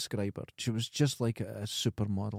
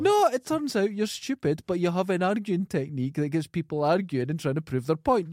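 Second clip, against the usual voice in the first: rip into him, half laughing; exasperated outburst; 6 semitones higher than usual. Real, not acted. Telling co-host he's stupid, exasperated.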